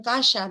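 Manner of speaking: calla with a sh for the s of casa; child's sh-sound. Retold or imitated. Teacher imitating how some children say casa. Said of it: "algunos niños cuando pronuncian no dicen".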